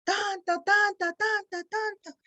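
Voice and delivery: echo. Shown as a demonstration. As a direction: mimic an echo dying away. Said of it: "el eco".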